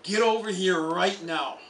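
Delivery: mock stern shout from across the field; fake angry shout. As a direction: bark the name like he's in trouble. He sees I'm mad.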